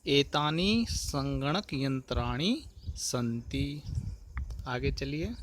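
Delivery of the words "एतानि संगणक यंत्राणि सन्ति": slow, drawn-out एतानि संगणक यंत्राणि सन्ति with every syllable stretched; slow repeat for pupils. Shown as a demonstration. Teacher repeats the line for pupils, slow and deliberate. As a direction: say it again slowly so the class can follow each word. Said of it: "एक बार फिर से उच्चारण देख सकते हैं आप".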